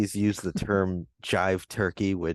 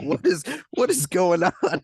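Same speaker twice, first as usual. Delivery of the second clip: confused; 10 semitones higher, 3 dB louder than usual. Retold or imitated. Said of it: "And I'm like".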